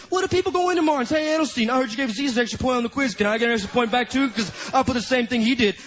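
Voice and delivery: rapid-fire acted fretting; mock-angry rush of words; furious retort. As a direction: rattle off the objection, mildly irate. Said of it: "Harris got fucking furious".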